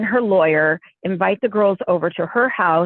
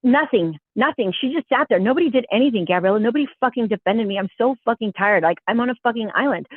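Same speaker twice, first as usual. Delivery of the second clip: imitating a fed-up friend venting; mildly heated retold complaint; retold mad rant. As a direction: replay her aggrieved rant, a touch worked up. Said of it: "She was so mad".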